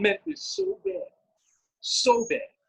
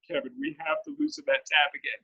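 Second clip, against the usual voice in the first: urgent plea; 6 semitones higher, 4 dB quieter than usual. Retold or imitated. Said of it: "I say it with all the urgency in the world".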